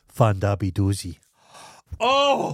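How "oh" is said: high, loud "Oh!"; a sudden high-pitched whoop of reaction; exclaimed "oh". Real, not acted. Reacting to the co-host's comic suggestion, high exclaimed "oh".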